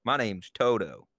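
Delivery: imitating Toto. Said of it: "That's what she sounds like".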